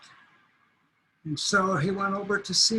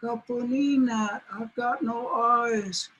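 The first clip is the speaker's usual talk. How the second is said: higher, pitiful plea; pleading coyote; 4 semitones higher than usual. Acted. Coyote pleads with the mouse, higher and pitiful. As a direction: beg the little mouse for help. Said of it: "He said".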